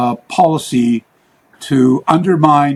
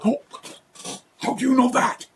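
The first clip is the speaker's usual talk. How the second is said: imitating an old man; 11 semitones higher, 6 dB quieter than usual. Old man surprised at the narrator.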